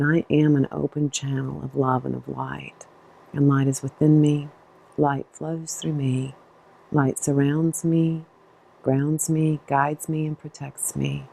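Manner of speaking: measured affirmation, pausing between phrases; spoken mantra. Real, not acted. Guide saying a mantra for listeners out loud, calm measured recitation. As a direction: recite it calmly as a personal mantra. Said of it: "use my mantra for you out loud".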